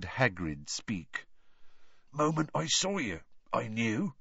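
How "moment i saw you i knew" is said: oddly husky. A narrator's reading. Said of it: "in an oddly husky voice".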